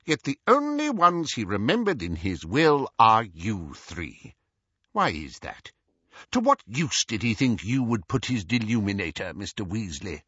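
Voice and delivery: lightly voiced insistent official; Scrimgeour persevering. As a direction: press for an answer, dropping at each question's end. Scrimgeour presses Ron.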